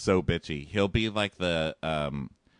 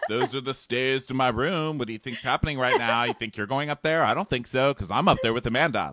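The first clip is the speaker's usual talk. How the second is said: indignant bro voice; 3 semitones higher, 4 dB louder than usual. Retold or imitated. Host imitating Josh scolding the guys off his room, bro voice. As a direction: scold them like a territorial bro.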